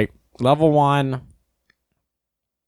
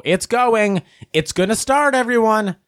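high-pitched mock-excited friend; excited announcement; 10 semitones higher than usual. Friend telling the group his car will start, excited announcement. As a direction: imitate an eager friend announcing a big moment.

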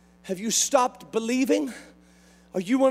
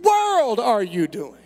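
slow raised-voice fatherly rebuke; serious dad; 5 semitones higher, slower than usual. Retold or imitated. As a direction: call him out like a serious father. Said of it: "really serious when he said".

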